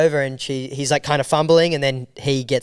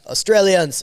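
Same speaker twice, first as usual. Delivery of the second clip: raised, louder official call; scary immigration officer; 6 semitones higher, 3 dB louder than usual. Retold or imitated. Russian officer summoning the Australians, mock-stern call. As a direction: imitate a stern officer calling out. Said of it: "scary Russian immigration guy just".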